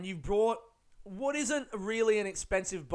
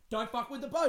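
mock angry warning; 7 semitones higher than usual. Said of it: "So he's getting angry".

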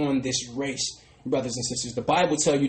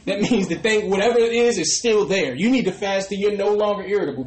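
rising preaching; 5 semitones higher, 4 dB louder than usual. Real, not acted. Preacher building, laughing.

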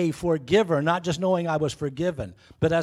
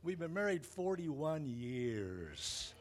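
choked up; 13 dB quieter, much slower than usual. Real, not acted. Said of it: "Now I'm getting all choked up".

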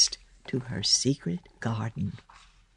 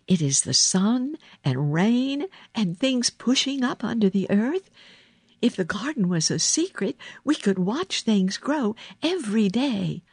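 put-on higher girl's voice, coaxing; Mary; 7 semitones higher than usual. A narrator's reading. Girl selling the boy on a secret garden, lilting and eager. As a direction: coax with a lilting child's eagerness.

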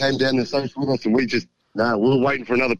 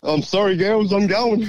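higher-pitched retold announcement; imitating eager dad; 8 semitones higher than usual. Son retells Dad leaving Father's Day breakfast, imitating his eagerness. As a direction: act out Dad's hasty exit, amused.

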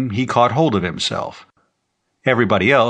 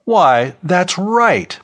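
lightly excited exclamation, higher pitch; exclaiming; 8 semitones higher, 4 dB louder, much slower than usual. A narrator's reading. Professor backing up a colleague, mildly excited exclamation. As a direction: pipe up in sudden agreement. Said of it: "Professor Kelton exclaimed".

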